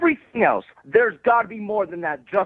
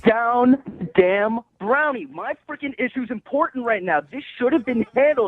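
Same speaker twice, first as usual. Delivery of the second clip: upset; 3 semitones higher than usual. Real, not acted. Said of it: "you're getting a little upset with me".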